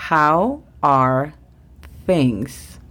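"How are things?" lento, th con la lengua entre los dientes; English model. Shown as a demonstration. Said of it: "La segunda frase del día es". (modelo de "How are things?")

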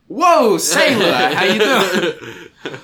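high, loud, drawn-out flirting; flirty catcall. Retold or imitated. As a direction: drawl it flirtatiously, very slow. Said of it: "I'm like".

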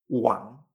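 Wang begun on a U, rising tone; W como U. Shown as a demonstration. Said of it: "esta W es como si fuera una U". (Wang como «uang», con tono ascendente)

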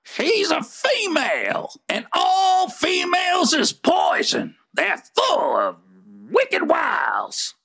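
gruff rant against women; grumpy rant. Acted. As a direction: grumble it with old suspicion. Grumpy rants about females.

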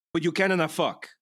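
mock Italian accent. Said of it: "the accent".

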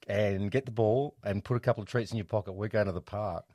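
high, loud eager dog voice; dog's voice. Retold or imitated. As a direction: voice the dog begging for a walk. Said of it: "they just go".

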